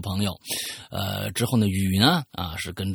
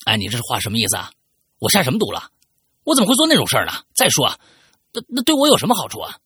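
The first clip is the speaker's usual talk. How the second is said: fast, louder, higher indignant questions; angry defense; 5 semitones higher, 6 dB louder, much faster than usual. Acted. Friend accused of spreading a virus angrily defends himself. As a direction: fire back offended at the accusation.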